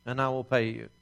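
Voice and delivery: pleading. Retold or imitated. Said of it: "falls down before his master and says".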